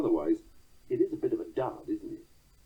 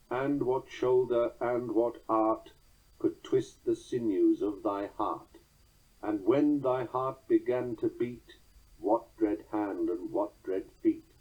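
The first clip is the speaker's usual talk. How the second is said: slow, measured recitation of verse; poem reading; slower than usual. Acted. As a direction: let each stressed beat land, unhurried. Reads third stanza aloud.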